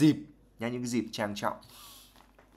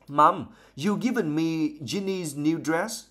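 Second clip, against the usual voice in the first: Ron's voice; 6 semitones higher, slower than usual. Acted. Ron voiced reading aloud.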